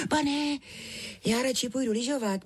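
put-on high little girl's voice, pleading; a small girl wriggling out of eating; girl begging uncle to let her ski, high and pleading; protesting. A narrator's reading. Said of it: "bránila se".

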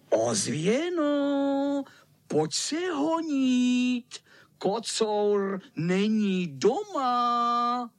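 high, drawn-out call. Acted. Freckled boy calling the echo out to play, drawn-out call. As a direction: call slowly across the yard. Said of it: "šeptal jim pihovatý a zavolal".

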